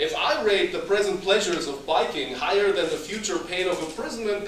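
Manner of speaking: bratty son arguing. Acted. Son talking back to his father, mildly loud and bratty. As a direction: argue like a cocky kid who thinks he knows better.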